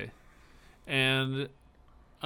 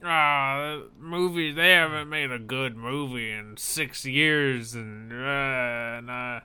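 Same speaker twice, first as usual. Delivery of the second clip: loud, slow, grumbling complaint; grumpy ranting stranger; 3 dB louder, slower than usual. Retold or imitated. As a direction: grump it out like a sour larper. Grumpy stranger rants about movies.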